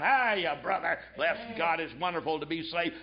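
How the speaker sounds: a hint of a backslapping hypocrite's cheery hello; mock hearty greeting. Preacher mimicking a backslapping churchgoer, mock cheer. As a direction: sneer at the fake friendly churchgoer. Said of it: "coming in with your twenty-pound Scofield Bible, backslamming".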